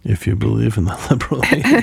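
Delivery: laughing through the quote; amused repeat. Retold or imitated. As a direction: repeat it with a chuckle.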